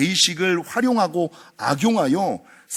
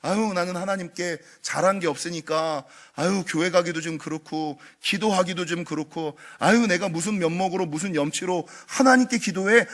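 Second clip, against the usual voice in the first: softer sighing false humility; a hint of whiny guilt; mock self-pity; 5 dB quieter than usual. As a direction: mimic a sulking believer. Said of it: "양심적인 것처럼".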